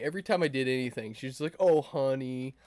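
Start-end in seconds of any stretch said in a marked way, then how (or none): 1.6-2.6 condescending. Retold or imitated. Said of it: "condescending almost".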